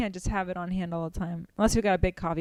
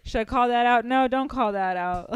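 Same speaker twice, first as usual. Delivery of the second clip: lightly voiced nagging inner voice; inner critic voice; 3 semitones higher, 3 dB louder than usual. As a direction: argue with yourself mid-set. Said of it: "The best is the voice in your head".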